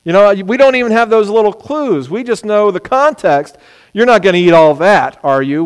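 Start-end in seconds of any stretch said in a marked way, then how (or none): 3.9-5.6 expecting no. Shown as a demonstration. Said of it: "culturally, we know the answer is no".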